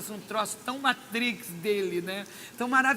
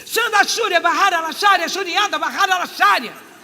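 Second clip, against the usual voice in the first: high, loud ecstatic glossolalia; speaking in tongues; 7 semitones higher, 11 dB louder than usual. Retold or imitated. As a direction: burst into tongues in rapture. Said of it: "a minha boca fez assim". (falando em línguas, agudo e alto)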